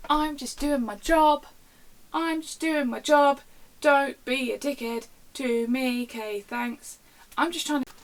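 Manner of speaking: loud, slow, high-pitched exasperated rant; drawn-out venting at rude customers. Real, not acted. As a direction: spell it out loudly and slowly, fed up. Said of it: "I was ranting".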